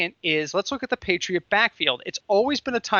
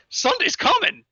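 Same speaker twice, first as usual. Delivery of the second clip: much higher, singsong mock taunt through a big grin; Mark Ingram's grinning taunt; 14 semitones higher, 3 dB louder than usual. Mark Ingram taps the window and taunts the guy, high mock singsong. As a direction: tease it high and goofy, like a grinning ad star. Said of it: "in different inflections".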